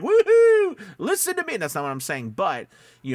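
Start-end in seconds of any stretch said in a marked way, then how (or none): 0.0-1.6 whooping squeal, much higher and louder, laughing; mock hype shout, laughing through it; loud, laughing parody of a screaming ad read. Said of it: "Not saying that you're screaming".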